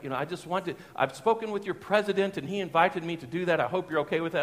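imitated polite German accent; lightly put-on German accent. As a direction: speak as a courteous German visitor. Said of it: "it was a German accent".

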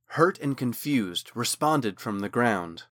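usual speaking voice

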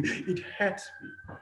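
real pain cracking into a high, slow squeeze; voice breaking. Real, not acted. Recalling missing friends' graduation.

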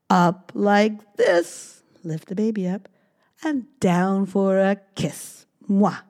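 tender nursery rhyme. Acted. Parent cooing a lift-and-kiss rhyme to baby, tender. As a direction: coo it to a baby.

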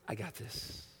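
soft whispered reassurance; hushed Spirit whisper. Retold or imitated. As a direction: breathe it out as a comforting secret. Spirit quietly interceding.

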